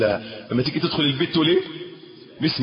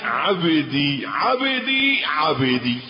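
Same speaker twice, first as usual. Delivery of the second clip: tender calling; slower than usual. Pretend. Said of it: "الله يقول عنك".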